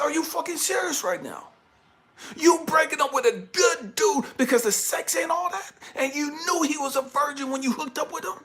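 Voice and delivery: dad berating daughter over breakup; angry lecture. Retold or imitated. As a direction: drive the scolding home.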